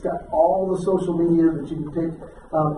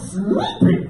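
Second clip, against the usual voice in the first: squeaky punchline. Acted.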